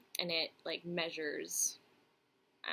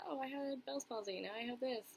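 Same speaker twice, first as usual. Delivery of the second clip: higher-pitched recital of a stock answer; rehearsed explanation; 6 semitones higher than usual. Retold or imitated. Having to go the whole explanation, higher mock recital. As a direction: act out the explanation you always give. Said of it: "you have to go the whole".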